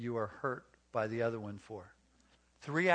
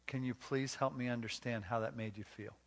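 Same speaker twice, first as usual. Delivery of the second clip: gentle request; 4 dB quieter than usual. Acted. Models wise husband gently asking wife.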